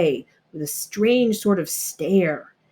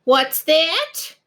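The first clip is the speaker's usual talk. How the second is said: high, sudden question; surprised worm; 8 semitones higher than usual. A narrator's reading. Worm calling up to the bragging animals. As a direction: pipe up from below. Worm's voice from below.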